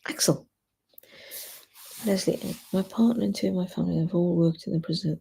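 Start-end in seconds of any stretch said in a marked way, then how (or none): 0.1-0.5 whispering. Real, not acted. Hushing the dog.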